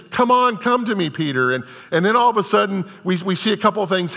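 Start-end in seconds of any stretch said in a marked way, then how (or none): 0.1-1.5 calling out. Retold or imitated. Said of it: "Jesus is saying".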